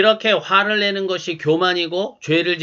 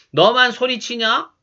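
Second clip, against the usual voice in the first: a mild mock shout back, pitched up; mock angry retort; 4 semitones higher than usual. Shown as a demonstration. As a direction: snap it back in a half-acted temper. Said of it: "소리 지르지 말고".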